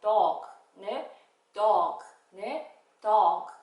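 dog said loud with the open American o. Shown as a demonstration. Teacher leading pupils in American pronunciation, loud. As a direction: open the mouth wide on dog. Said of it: "미국 파닉스로 한번 해볼까요".

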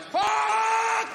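huge, high, loud curse; furious shout. Retold or imitated. Dad losing it at his son, a high furious shout. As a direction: explode with a scream.

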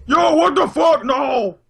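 high loud yelp; mock shock. Joining a friend's joke with a high loud yelp. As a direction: yelp it in fake disbelief.

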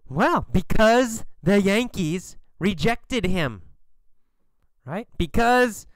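ordinary delivery

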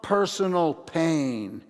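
ordinary delivery

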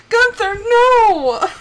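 high, loud, drawn-out reprimand; scolding shout. Real, not acted. Streamer shouting at Gunther to stop, scolding. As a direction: call out slowly to stop a pet.

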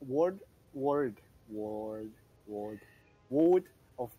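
halting attempt at British "world"; attempted British accent. Shown as a demonstration. Friend practising the game's welcome, faltering British accent. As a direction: try "world" over and over in British. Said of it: "no, I can't do that".

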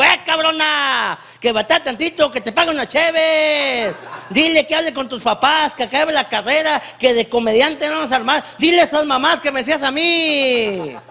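hammed-up outraged husband, calling out the line endings; outraged scolding. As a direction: scold your wife in jealous indignation. Husband scolds wife for undressing readily.

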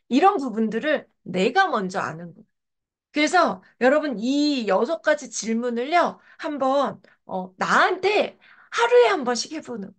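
usual speaking voice

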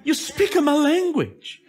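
"You're speaking my language" in a hammed-up devil accent; devil's accent. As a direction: gloat as the devil in a put-on accent. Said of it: "in that accent too".

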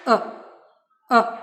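short neutral schwa "е"; "е" as an unstressed, relaxed uh. Shown as a demonstration. Teacher reminds learners of schwa, a neutral "е". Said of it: "Він такий, як нейтральний".

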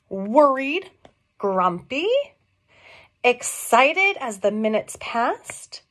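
put-on lilting read-aloud voice for small children; gentle sing-song storybook read. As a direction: read it like a picture book at story time. Reads picture book to children.

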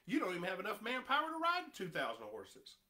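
laughing scorn. Retold or imitated. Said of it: "he's sitting there saying".

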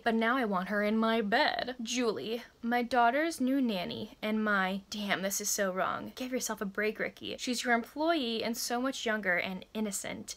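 measured narration of a romance blurb; steady first-person story reading; book blurb read-aloud. A narrator's reading. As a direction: read it out like a back-cover blurb.

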